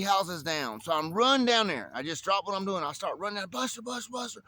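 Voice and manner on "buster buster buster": high call after a runaway dog. Retold or imitated. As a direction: call his name up high down the road.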